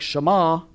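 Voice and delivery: Shema with the accent on its last syllable, "ma"; stress on second syllable. Shown as a demonstration. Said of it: "accent on the second syllable".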